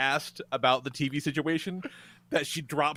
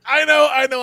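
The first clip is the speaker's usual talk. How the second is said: a hint of a higher, louder apologetic waitress; mock flustered waitress; 8 semitones higher, 10 dB louder than usual. Waitress apologising to the table, higher and louder. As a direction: hurry the apology like a harried server. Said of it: "And she's like".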